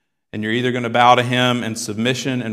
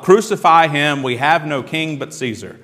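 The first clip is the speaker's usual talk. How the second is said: retold crowd cry, somewhat raised; calling out; 3 semitones higher than usual. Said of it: "they call out".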